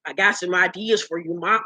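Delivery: lightly slurred, soft low bad-teeth impression; Jewels. Host voicing castmate's idea, mock slurred voice. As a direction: imitate his mushy speech, holding in a laugh. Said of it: "I gotta do my Jewels voice".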